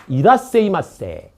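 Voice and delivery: drawn-out Japanese shop welcome; slow Japanese restaurant call; Japanese greeting. Retold or imitated. Teacher imitating a sushi chef welcoming customers, slow Japanese call. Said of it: "일본어로".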